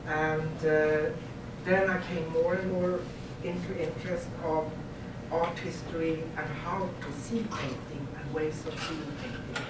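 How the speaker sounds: Swedish-accented English; Scandinavian accent. Real, not acted. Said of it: "so my English would be sometimes a bit weird".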